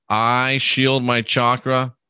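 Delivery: slow, measured affirmation. Shown as a demonstration. Host showing viewers how to shield, slow and deliberate. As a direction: lay each word down slowly and calmly. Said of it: "That's the way I would do it".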